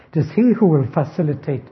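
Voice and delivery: "he" lifted above the words around it; single out "he" with emphasis; stress on HE. Shown as a demonstration. Teacher showing who rebuilds Jerusalem, stress on "he". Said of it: "the emphasis there is on the he".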